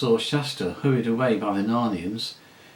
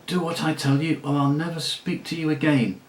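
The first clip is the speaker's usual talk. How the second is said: hissed threat; 4 semitones higher than usual. Acted. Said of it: "hissed Aravis".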